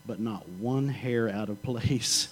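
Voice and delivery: laughing punchline. Retold or imitated. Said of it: "He said".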